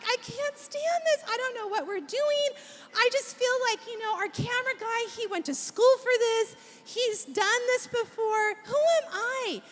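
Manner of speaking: imitating a husband who is giving up; exasperated self-doubt. Husband venting to wife about the camera guy, exasperated.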